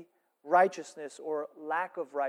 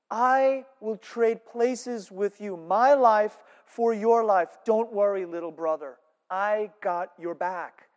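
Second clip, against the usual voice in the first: slow earnest promise; 3 semitones higher, 6 dB louder, slower than usual. Retold or imitated. Judah's vow retold.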